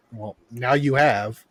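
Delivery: slow, dry comeback, each word drawn out; deadpan comeback. Retold or imitated. Telling the service guy off in a slow, dry deadpan. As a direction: let the dry retort land slowly.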